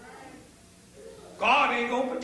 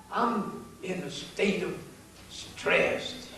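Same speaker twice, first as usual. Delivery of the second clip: quieter, slow, lower mimicking of complainers; mock stressed people; 6 semitones lower, 5 dB quieter, much slower than usual. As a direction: draw it out slowly, mocking their complaint. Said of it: "I look at people and they talk about".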